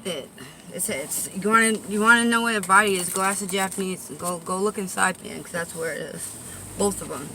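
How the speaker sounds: lisping s, softly trailing off; slushy s sounds through a lisp. Real, not acted. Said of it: "sorry for the lisp again".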